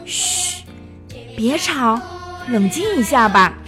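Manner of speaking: soothing. A narrator's reading. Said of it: "西莱斯特劝道".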